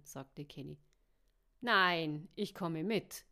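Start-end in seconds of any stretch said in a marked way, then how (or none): 1.6-3.2 loud, emphatic refusal; loud call. A narrator's reading. M refuses to stay behind, calling out loudly. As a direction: burst out loudly, insisting. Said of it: "rief sie laut".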